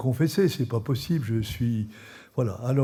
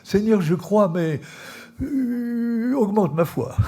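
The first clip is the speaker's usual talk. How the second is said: fervent prayer; 7 semitones higher, slower than usual. Retold or imitated. Quoting the father's prayer.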